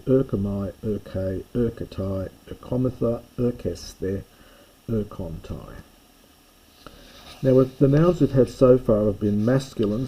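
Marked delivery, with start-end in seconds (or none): 0.1-5.7 paced drill of erkomai, erke, erketai; reciting Greek endings. Shown as a demonstration. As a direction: model each Greek form for the class to repeat. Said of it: "you need to practice learning those very carefully".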